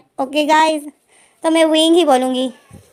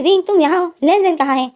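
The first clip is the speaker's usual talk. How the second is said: surprised; 6 semitones higher than usual. Retold or imitated. Surprised meeting, redone higher.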